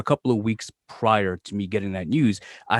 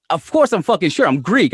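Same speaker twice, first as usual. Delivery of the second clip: imitated annoyed protest; 8 semitones higher, 7 dB louder than usual. Host imitating friend's annoyed reply.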